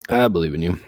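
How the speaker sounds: talking through hiccups; hiccuping between words. Real, not acted. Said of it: "I've also just got the hiccups".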